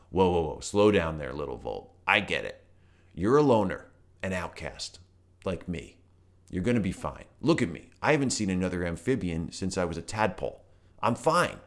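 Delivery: chill, friendly toad. Acted. Toad character voice.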